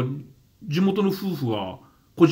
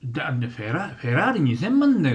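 Osaka dialect imitation; 2 semitones higher than usual. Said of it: "両方とも大阪弁で".

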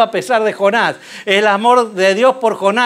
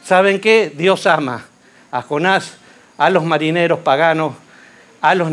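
tender message; 3 semitones lower than usual. Retold or imitated. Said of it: "le enseñemos".

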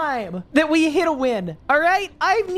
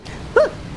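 sharp breathy gasp; 14 semitones higher than usual. Real, not acted. Shocked after his own remark.

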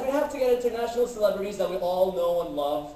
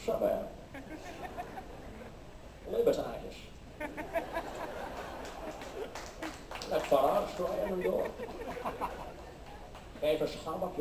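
Sean Connery impression; 3 dB quieter, much faster than usual. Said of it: "This is how it sounds like in Arabic".

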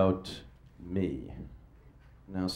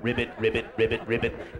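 frog croaking; 4 dB quieter, faster than usual. Pretend. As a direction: croak quietly like a little frog.

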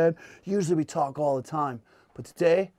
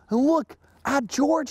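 high, excited mock shout; 11 semitones higher, slower than usual. Jimmy pointing out George to the class, excited high shout. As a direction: call out like an amazed schoolboy, pitched up. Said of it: "he shouted".

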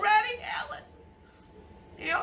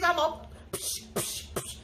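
spray hiss; 3 semitones lower, 4 dB quieter than usual. Shown as a demonstration. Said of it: "like that".

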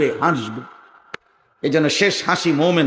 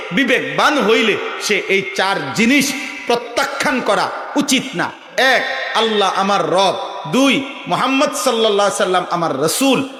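preaching; 3 semitones higher than usual. Real, not acted.

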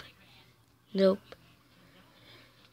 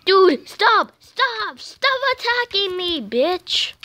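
yelling; 4 semitones higher, slower than usual. Real, not acted. Attacked in game, yelling.

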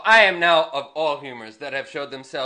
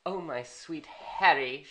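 Hotspur's wife; 7 dB quieter than usual. Retold or imitated. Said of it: "she says".

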